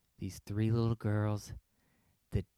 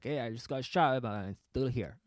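loose, not very good imitation of a ballplayer; admittedly poor impersonation; David Ortiz. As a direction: have a half-successful go at mimicking a ballplayer. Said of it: "I can't do a good Ortiz".

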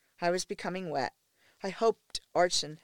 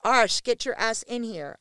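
loud call for help; 5 semitones higher, 7 dB louder than usual. A narrator's reading. Calling for help.

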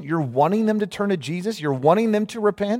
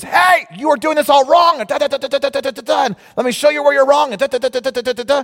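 higher, louder, pushy correcting tone; mock know-it-all critic; 6 semitones higher, 4 dB louder than usual. Someone corrects the preacher, smug scolding. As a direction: play the smug critic lecturing you. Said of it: "Someone comes up to you and says".

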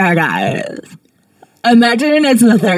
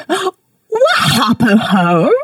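shrieking; 6 semitones higher, 3 dB louder than usual. Acted. Mock outrage over a drawing.

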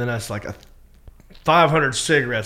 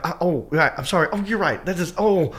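high, mildly panicked backpedaling; flustered apology; 6 semitones higher, 6 dB louder than usual. Retold or imitated. Comic to the girl getting mad, flustered and sorry. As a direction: replay helpless embarrassment.

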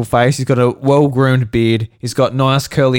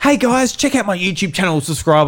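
higher-pitched imitation of a perky YouTuber; YouTuber sign-off; 5 semitones higher than usual. Lady plugging her YouTube channel, imitated sign-off. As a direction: mimic an Australian singer plugging her channel. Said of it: "she's like".

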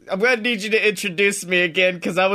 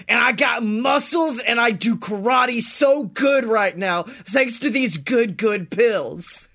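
hyped infomercial read. Pretend. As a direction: sell it like a cheesy ad. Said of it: "are you reading an ad copy".

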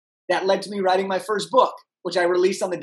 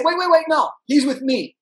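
blurted out; 7 semitones higher, 4 dB louder than usual. Retold or imitated. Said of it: "but I just blurt out".

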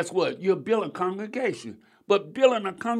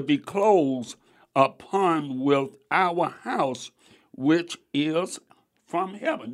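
scripture reading. Acted. Preacher reading Corinthians to the congregation, measured. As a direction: read the verse with weight.

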